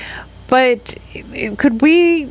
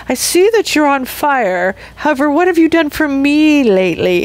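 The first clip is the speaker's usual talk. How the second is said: demanding; 5 semitones higher than usual. Retold or imitated. Voicing demanding people.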